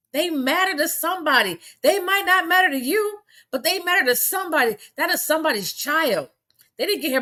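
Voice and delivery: impassioned plea. Real, not acted. Emotional rant at online commenters.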